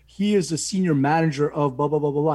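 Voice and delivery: mock-grand bragging to everybody; retold fatherly brag, trailing into blahs; proud boasting. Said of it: "He was so proud of it".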